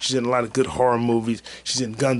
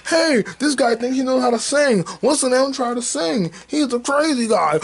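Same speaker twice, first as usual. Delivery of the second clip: mocking heckler; 12 semitones higher than usual. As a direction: sneer like a troll online. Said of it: "someone's gonna clip that part out and say".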